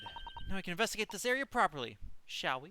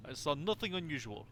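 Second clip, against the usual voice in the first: gruff Russian guard; smug Russian seaman; Russian accent. Acted. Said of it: "sorry to literally anybody who actually has a Russian accent".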